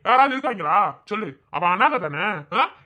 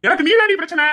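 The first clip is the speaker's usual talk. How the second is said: raised, louder accusing shout; angry retort; 4 semitones higher, 4 dB louder than usual. Acted. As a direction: throw the blame at him, loud. Father-in-law quarrelling with son.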